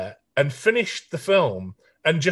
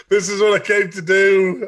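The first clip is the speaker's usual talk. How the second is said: mock ecstasy; 4 semitones higher than usual. Mock ecstatic reaction to a singer.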